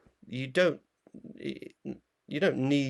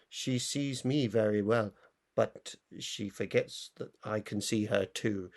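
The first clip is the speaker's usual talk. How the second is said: put-on Norwegian accent; 4 dB quieter than usual. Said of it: "that's a perfect Norwegian accent".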